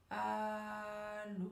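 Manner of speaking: ALLÔ very slow, both vowels held on a level note; stretched syllables. Shown as a demonstration. Coach practises the famous telephone word, drawn-out ALLÔ. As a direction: hold the A long, then a long steady LÔ. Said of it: "allonger le mot, allonger la syllabe".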